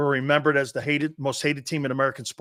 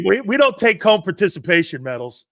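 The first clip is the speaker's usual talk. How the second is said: loud, higher-pitched mock declaration; emphatic proud repeat; 5 semitones higher, 8 dB louder than usual. Dad repeating his daughter's line about medals, loud proud declaration. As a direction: belt it out as a proud motto.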